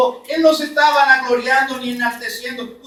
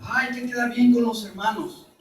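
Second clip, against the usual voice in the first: softer, lightly whiny sigh on "Ay, hay que quedar bien"; mock people-pleaser; 2 semitones lower, 7 dB quieter, faster than usual. Preacher mimicking a people-pleasing brother, softer and mildly whiny. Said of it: "No, hermano, hay que quedar bien con Dios".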